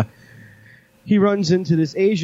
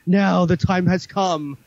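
ominous villain; 5 semitones higher, slower than usual. Retold or imitated. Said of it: "she's like".

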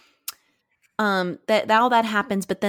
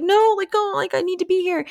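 high and loud, frantic insistence; worked up; 12 semitones higher, 5 dB louder than usual. Retold or imitated. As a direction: push back at him all agitated. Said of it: "she's, like, getting super, like, excited".

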